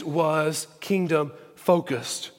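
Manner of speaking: "kingdom-focused" slowly, split by pauses; slow emphasis. Real, not acted. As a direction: spell out "kingdom-focused" as a weighty sermon point. Point repeated slowly for emphasis.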